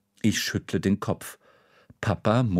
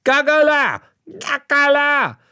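very high, loud clucking "Gagala!"; dad flapping around the restaurant as a chicken; chicken impression; 7 dB louder than usual. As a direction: cackle like a hen. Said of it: "flattert mit den Armen und sagt".

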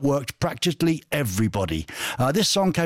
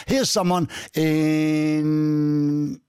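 whispering; much slower than usual. Acted. Teasing dramatic whisper.

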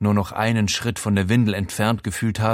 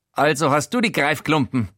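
a fussy, nosy voice pitched up; Showalter's voice; 6 semitones higher than usual. Acted. Housemate Showalter startles the naked narrator, high. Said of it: "sagt er".

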